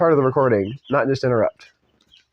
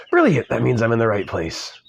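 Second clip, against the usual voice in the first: put-on British accent; 2 semitones lower than usual. British lawyer finding the right place, put-on accent. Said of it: "said the British man".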